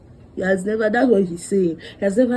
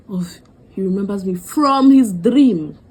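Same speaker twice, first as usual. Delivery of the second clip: whisper; 4 dB louder than usual. Real, not acted. Telling the shocking punchline.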